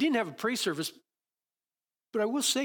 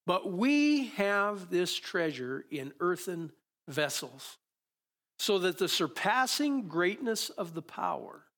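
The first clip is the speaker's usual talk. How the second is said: slow, measured Bible reading; scripture reading; 2 semitones lower than usual. Acted. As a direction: read the verses with weight, pausing. Reads the scripture passage aloud.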